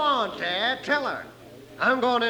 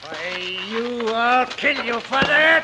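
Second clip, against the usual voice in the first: furious threat; much slower than usual. Acted. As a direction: spit out a slow death threat. Villain threatens after being hit.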